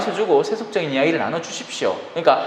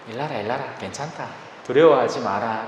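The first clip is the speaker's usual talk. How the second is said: soft, gentle comfort to frightened disciples; 5 semitones lower, 5 dB quieter than usual. A narrator's reading. Jesus soothing his frightened disciples, softly. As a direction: reassure them quietly. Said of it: "라고 위안해 주십니다".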